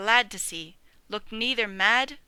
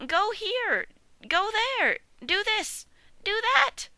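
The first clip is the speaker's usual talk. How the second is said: furious squeak; 12 semitones higher, slower than usual. Acted. Piglet dreaming, ordering sheep about, high furious squeak. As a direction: squeak commands in a fury. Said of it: "he squeaked furiously at them".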